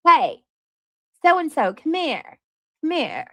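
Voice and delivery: mock doting mom. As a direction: coax the kids over sweetly. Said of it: "we gotta do the baby voice".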